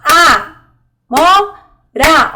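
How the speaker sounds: A - mo - ra, three separate loud beats with gaps; clap-along syllable count on "A, mo, ra". Shown as a demonstration. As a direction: break "A, mo, ra" into three emphatic, spaced syllables. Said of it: "Olha, três sílabas".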